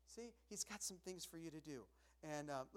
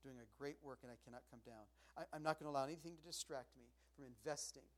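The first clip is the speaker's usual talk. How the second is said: soft, lowered affirmation; quiet vow; 3 semitones lower, 6 dB quieter than usual. Retold or imitated. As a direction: say it low as a promise. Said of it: "And you look and say".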